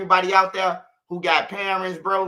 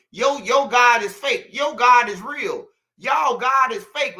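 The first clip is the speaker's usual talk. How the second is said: higher, slower, punched-up mock argument; mock arguing; 5 semitones higher, 4 dB louder, slower than usual. Man mimics people fighting over whose God is real, mock arguing. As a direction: imitate people bickering, drawing each claim out.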